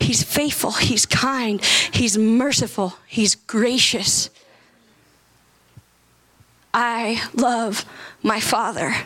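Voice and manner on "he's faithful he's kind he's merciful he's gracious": lower, slower, each word weighed; slowly savoring each attribute. Shown as a demonstration. Preacher slowing the list down, lingering on each word. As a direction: let each name of God sink in. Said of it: "I said that really fast".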